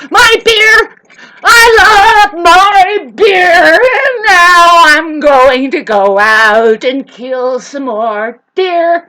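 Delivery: loud, slow drawling redneck wail; drunk redneck voice. Acted. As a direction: howl it like a drunk hillbilly. Drunk redneck singing about beer.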